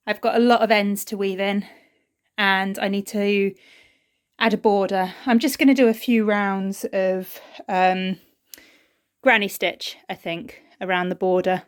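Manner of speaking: breathless, gasping between phrases; talking after running up stairs; out of breath. Real, not acted. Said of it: "Sorry, I'm out of breath".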